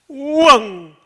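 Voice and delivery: high, loud imitated baby wail; mock baby wail. Pastor imitating his daughter bursting into tears, loud wail. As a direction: belt out a toddler's burst of crying.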